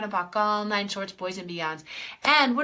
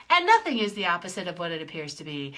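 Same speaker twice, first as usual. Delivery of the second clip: lower voice; 5 semitones lower, faster than usual. Shown as a demonstration. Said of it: "let's play with the crazy phrase".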